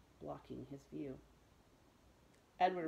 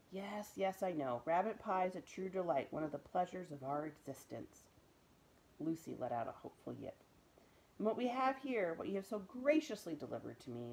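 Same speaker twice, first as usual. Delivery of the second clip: louder, courtly storytelling man; a genial tramp holding forth; big bearded man; 4 dB louder than usual. Acted. Voice of Bull.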